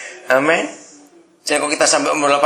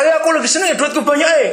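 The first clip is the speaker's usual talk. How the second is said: mock gleeful shout; 9 semitones higher, much faster than usual. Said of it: "nggak teriak-teriak".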